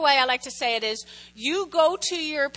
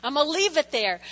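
prayer; 2 semitones higher than usual. Pretend. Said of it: "you go".

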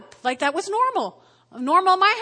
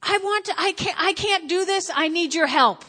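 prayer; 5 semitones higher than usual. Retold or imitated. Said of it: "You simply say".

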